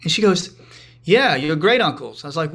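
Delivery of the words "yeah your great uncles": imitating mom's light Korean accent; slow, lightly Korean-accented mom; a touch of Korean accent. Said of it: "a little in her Korean accent".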